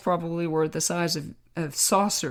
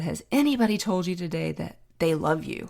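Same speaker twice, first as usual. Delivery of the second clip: Southern lady. Retold or imitated. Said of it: "the most Southern accent".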